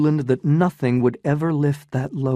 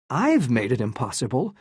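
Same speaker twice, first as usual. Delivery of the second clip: incredulous question, rising at the end; a stunned man echoing her. Acted. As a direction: repeat her words back in disbelief, rising. Newland stunned by her accusation.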